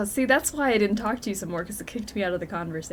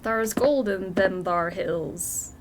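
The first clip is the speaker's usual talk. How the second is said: put-on old prospector voice; much slower than usual. Jokes about gold in mountains.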